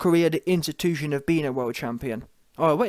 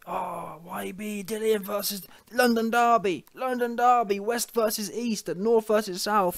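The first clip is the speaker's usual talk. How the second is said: higher sing-song promoter hype; mock hype; 4 semitones higher than usual. Vlogger mocking Dillian's nonstop London Derby hype, higher mock pitch. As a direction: ham up the cheap derby sales pitch. Mimics Dillian hyping the fight.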